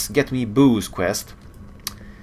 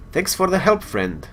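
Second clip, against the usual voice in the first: reading Scotty's line; 10 semitones higher, 5 dB louder than usual. Acted. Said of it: "I wish I could do a Scottish accent".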